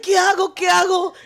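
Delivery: high, loud frantic Spanish plea; panicked mom. Retold or imitated. Daughter imitating her frightened mom after the crash, frantic. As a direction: mimic a scared mom crying out what do I do. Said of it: "My mom's like".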